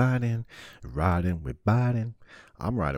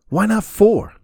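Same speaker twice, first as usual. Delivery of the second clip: much higher and louder, ridiculous escalation; mock outraged shout; 13 dB louder, slower than usual. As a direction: yell it as absurd logic. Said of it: "I'm like".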